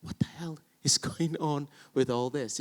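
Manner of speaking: whispered puzzled aside; mock confused whisper. Actor baffled by the rhythm, whispered. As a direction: hiss it out baffled. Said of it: "And you're like".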